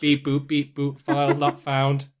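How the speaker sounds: lightly voiced robot, slow last words; a hint of a beeping toy robot. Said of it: "called out as a robot".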